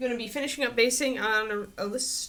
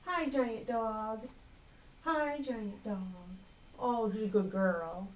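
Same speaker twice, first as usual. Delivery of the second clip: squeaky praising a dog; slower than usual. Real, not acted. Cooing at the dog.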